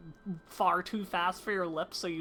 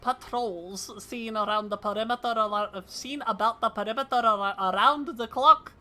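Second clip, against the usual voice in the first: put-on shoddy Scottish accent; 4 semitones higher, 5 dB louder than usual. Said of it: "my Scottish accent is shoddy".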